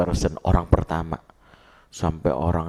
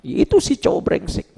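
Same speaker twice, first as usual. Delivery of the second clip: higher, louder scornful spit of "brengsek"; contemptuous mother; 5 dB louder than usual. Retold or imitated. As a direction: sneer at the no-good boyfriend. Mother's bitter answer about boyfriend. (nada tinggi dan sinis)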